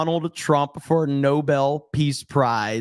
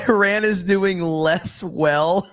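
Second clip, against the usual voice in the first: mocking Trump; 3 semitones higher than usual. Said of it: "Who talks like this?".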